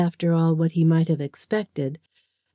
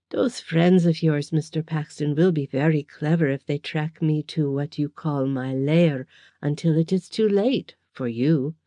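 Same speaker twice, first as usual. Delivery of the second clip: mock sympathy. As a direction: pity him with a faint sneer. Villain threatens softly.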